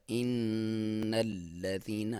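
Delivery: إِنَّ nasal hum held long; slow recitation with ghunna. Shown as a demonstration. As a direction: hum the noon through the nose. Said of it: "لام کے اوپر تھوڑا سا ٹھہریں گے".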